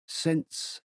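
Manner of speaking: poetry quotation voice; quoting poetry. A narrator's reading. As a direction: begin reciting a love poem. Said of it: "he quoted".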